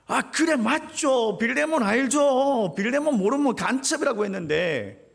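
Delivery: Paul beaming, not yet suspecting; cheerful Paul. Acted. 바울이 반갑게 대답. (반갑게 맞장구치는 바울)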